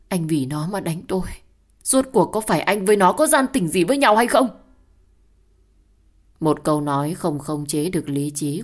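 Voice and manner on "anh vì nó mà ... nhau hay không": builds to a loud, high shout; accusing outburst. Acted. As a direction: start hurt, then explode at him. Wife accuses husband in a fight.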